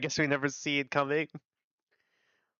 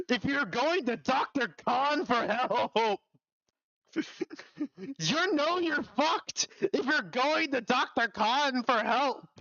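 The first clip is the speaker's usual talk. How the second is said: mocking high drawl; 7 semitones higher, slower than usual. Mocking chat line, slow, high.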